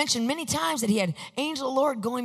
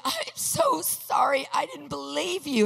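retold crying; 5 semitones higher, 3 dB louder, slower than usual. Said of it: "And she's crying".

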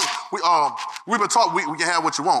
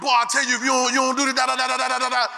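mama fussing; 4 semitones higher, faster than usual. Retold or imitated. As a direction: scold the kids like an exasperated mother. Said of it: "be fussing at us".

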